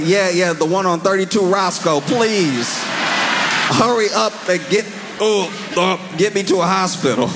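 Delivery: hurried high panicky plea. Retold or imitated. Crashed leader begs followers for hospital, hurried and panicky. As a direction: rush it like a hurt man begging. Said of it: "And he's like".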